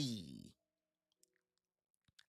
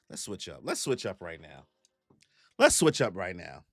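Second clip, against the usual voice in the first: much lower, heavy guy voice; deep dude voice; 11 semitones lower, 4 dB quieter than usual. Shown as a demonstration. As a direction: drop into a deep bro voice. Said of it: "my best voice like this dude".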